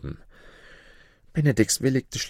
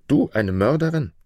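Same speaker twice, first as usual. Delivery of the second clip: astonished exclamation; 5 semitones higher, 3 dB louder than usual. Acted. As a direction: rise on Du, a touch louder in disbelief. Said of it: "rief er".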